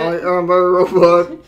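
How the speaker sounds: lightly put-on robot voice; hammy robot puppet announcement; Tito Servo. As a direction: declare it as a cartoon robot. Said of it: "I'll do Tito Servo".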